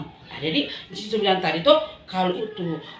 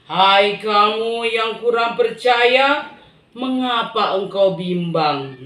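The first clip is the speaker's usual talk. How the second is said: slow, weighty reproach; slow gentle rebuke; 5 dB louder, much slower than usual. Acted. Jesus lifting Peter, gently rebuking doubt. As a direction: chide him gently. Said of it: "Tuhan iko bilang".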